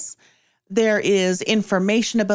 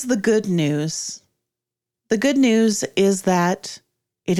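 game master narration; 3 semitones lower than usual. Acted. Game master describing silent depths to the players, measured narration.

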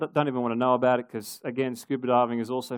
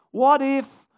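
urgent; 10 semitones higher, 6 dB louder than usual. Acted. Listing fears, repeating what if.

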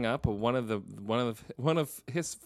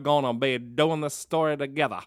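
put-on Kevin Spacey's Southern accent; 3 dB louder than usual. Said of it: "But then it starts doing his".

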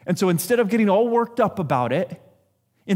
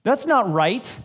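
sharp, louder call of outrage; indignant protest; 5 semitones higher, 3 dB louder, much slower than usual. Retold or imitated. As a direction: object loudly, like catching a wrong. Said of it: "and I go".

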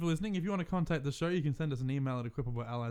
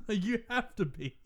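laughing echo; 6 semitones higher, slower than usual. Shown as a demonstration. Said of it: "You have to be amazing at lying".

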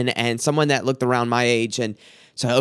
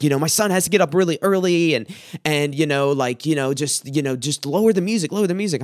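mildly exasperated neighbour, pitched up; retold upset complaint; faster than usual. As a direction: imitate her pleading to cut the noise. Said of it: "And she was upset".

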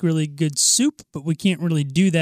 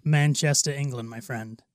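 lower, attempted Manchester accent; British accent; 4 semitones lower, 6 dB quieter than usual. Friend answers where he is from, attempted British accent. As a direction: play a friendly Manchester Englishman. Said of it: "British guy".

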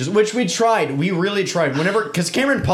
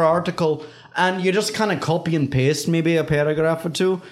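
put-on Scottish accent. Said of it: "a little Irish that slipped through, and then it went right back to Scottish".

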